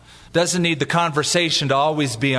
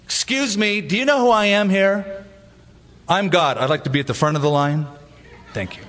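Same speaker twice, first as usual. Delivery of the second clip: higher-pitched, self-important queue-jumper; mock bragging; 5 semitones higher than usual. Imagined Jesus demanding front of the line, mock bragging. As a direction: pull rank as a lightly acted big shot. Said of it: "do you ever remember him saying".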